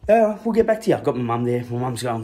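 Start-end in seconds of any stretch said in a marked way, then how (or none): 0.1-0.9 much higher, louder mocking cop voice. Teen mocking the cops who found the gun. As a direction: send up the police brush-off.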